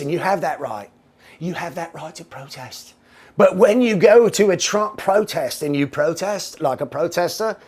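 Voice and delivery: bad put-on accent, paraphrasing him; Trevor Noah. Talk-show host lecturing would-be protesters, in a bad accent. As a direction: imitate the TV host in a poor accent. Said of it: "lapse into my bad accent".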